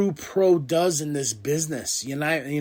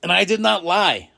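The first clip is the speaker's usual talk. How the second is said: boastful; 6 semitones higher, 8 dB louder than usual. Retold or imitated. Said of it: "He's like".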